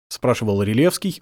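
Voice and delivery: plain reading voice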